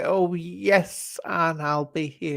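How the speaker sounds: mock gushing. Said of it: "I'm expecting to say".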